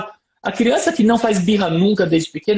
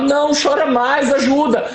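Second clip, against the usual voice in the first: higher, laughing through the words; retold laughter, raised and slower; 7 semitones higher than usual. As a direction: laugh while urging him to cry. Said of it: "Aí eu começo a rir".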